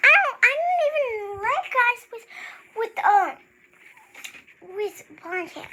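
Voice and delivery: high, fast, giggly mimicry; laughing mockery. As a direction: rush it, mocking her. Mocking friend, fast laughing.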